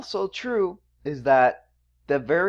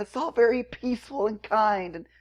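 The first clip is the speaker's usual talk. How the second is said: sarcastic mocking; 8 semitones higher than usual. Mocking soft corporate vibe.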